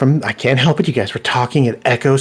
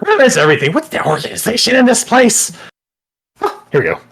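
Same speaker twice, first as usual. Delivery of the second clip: cook calling from kitchen; 12 semitones higher, 5 dB louder, faster than usual. Acted.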